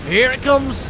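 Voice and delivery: rising hype. Acted. Build-up before big moment.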